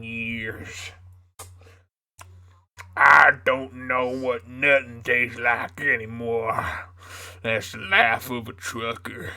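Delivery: southern trucker voice. Pretend. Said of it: "doing that voice".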